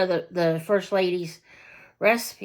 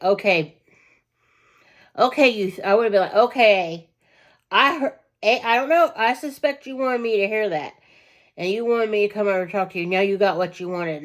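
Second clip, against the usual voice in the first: confronting voice; 3 semitones higher, 3 dB louder than usual. Retold or imitated. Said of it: "just been like".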